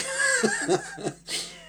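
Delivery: high, airy laugh. Real, not acted. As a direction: laugh fondly at your dog. Laughing after dog story.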